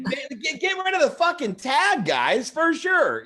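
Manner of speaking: high squeaky elf calling out. Pretend. Elf on the shelf calls to the boys, high and squeaky. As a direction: call out like a cheeky little elf.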